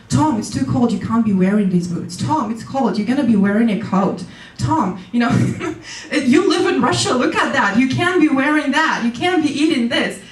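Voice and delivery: fussy nagging. Retold or imitated. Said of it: "every time he would tell me".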